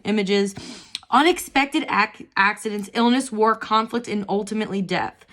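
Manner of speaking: reading aloud. Acted. Reading the card's guidebook text to viewers, measured reading voice. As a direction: read the guidebook passage evenly. Reads underworld card text.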